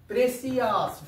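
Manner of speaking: "প্রেসিয়াস" stretched out in separate parts; syllable breakdown. Shown as a demonstration. Teacher showing a multi-syllable word, "প্রেসিয়াস" drawn out by syllable. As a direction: draw out "প্রেসিয়াস", sounding each syllable. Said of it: "প্রেসিয়া একবার, আস একবার".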